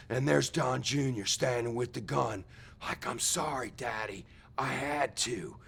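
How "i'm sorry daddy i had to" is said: mock tearful apology. Son apologises after shooting dad.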